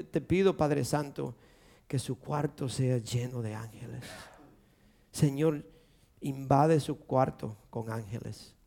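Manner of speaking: soft, low pleading to God; retold hushed prayer. Father prays for his sick daughter, hushed pleading.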